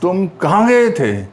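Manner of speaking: तुम, then कहाँ punched, falling at the end; stress on कहाँ. Shown as a demonstration. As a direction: put the weight on कहाँ in तुम कहाँ गए थे. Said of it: "तो कहाँ, यहाँ पर बलाघात हो रही है".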